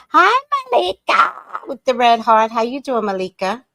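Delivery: high, loud sing-song hello; excited greeting. Real, not acted. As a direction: call out a bright welcome. Greeting viewer on livestream.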